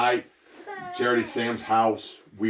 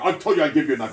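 angry insistence; 4 semitones higher, 4 dB louder, faster than usual. Retold or imitated. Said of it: "he's very angry".

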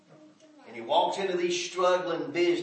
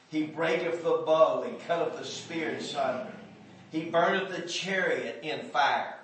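measured, solemn scripture read. Acted. Reads psalm aloud in pulpit.

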